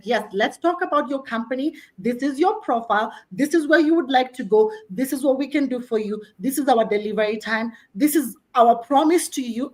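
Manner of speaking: assured, measured client pitch; confident. Acted. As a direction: lay it out point by point like a trusted expert. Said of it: "So that confidence".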